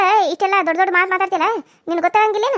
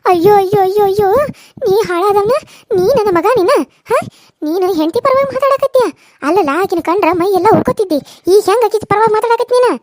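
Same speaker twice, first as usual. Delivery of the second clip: scolding wail; 5 dB louder than usual. Acted. Mother scolds son.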